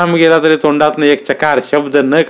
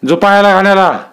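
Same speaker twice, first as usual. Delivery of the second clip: higher, booming command from the village strongman; roaring order; 5 semitones higher than usual. A narrator's reading. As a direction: roar the order at the cowering oil-presser. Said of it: "दादा गरजले".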